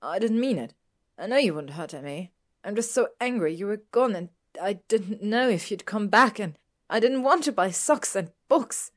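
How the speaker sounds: high, loud, upset outpouring; tearful. A narrator's reading. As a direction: pour out the apology, building in distress. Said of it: "tears running down her cheeks".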